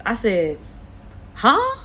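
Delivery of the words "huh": high, loud startled huh. Retold or imitated. Caught off guard by the trainer, startled high huh.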